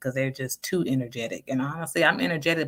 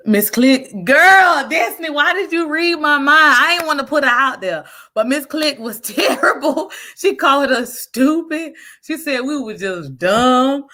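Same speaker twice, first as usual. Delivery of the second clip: much higher and louder, worked-up storytelling; excited rant; 11 semitones higher, 7 dB louder than usual. Real, not acted. Telling Destiny about the terrible math teacher, excited and loud. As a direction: get fired up telling it.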